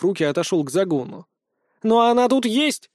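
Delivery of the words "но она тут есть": high, insistent squawk; the hen won't let it go; persistent indignation. Acted. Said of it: "не унималась курица".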